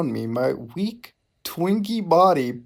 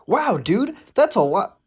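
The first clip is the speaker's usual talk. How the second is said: mock excited; 7 semitones higher, 4 dB louder than usual. Reading Mutahar's dialogue.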